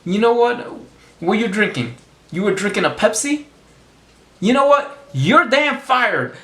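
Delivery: hammed-up boss firing the worker; mock angry boss. Boss catches his Pepsi driver with a Coke, mock angry. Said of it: "this guy boss says".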